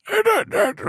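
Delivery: put-on very high, far-off stab at an Indian accent; failed Indian accent. Comic failing again at the Indian child's accent, very high. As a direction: squeak out an Indian accent and fail. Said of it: "I can't even do it".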